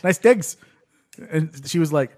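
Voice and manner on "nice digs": high mock Cockney; imitated accent. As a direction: repeat it in a put-on Cockney accent.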